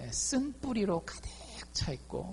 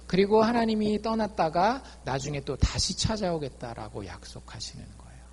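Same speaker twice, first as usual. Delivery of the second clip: usual speaking voice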